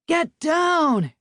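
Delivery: loud, high shouted command; yelled order. A narrator's reading. Nate shouting at people in the park to get down. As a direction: bark it to clear the park. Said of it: "Nate yelled".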